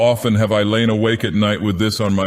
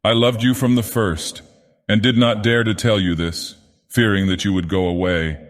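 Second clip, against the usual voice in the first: higher, strained voice breaking into pleading; strained, anguished confession; 3 semitones higher than usual. Acted. Sylvia confesses her past to Jack, strained and pleading. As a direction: plead through rising anguish. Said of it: "a voice changed and strained".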